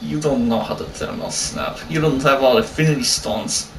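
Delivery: lightly put-on Russian accent, low and soft; hint of a fake Russian; mock Russian accent. Taunting a player about Thanos, mock Russian accent. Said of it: "Why are you doing a Russian accent?".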